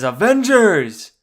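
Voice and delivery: slow, loud, high battle call; heroic rallying cry. Retold or imitated. Fan imitating Captain America rallying the team. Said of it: "He catches it and says".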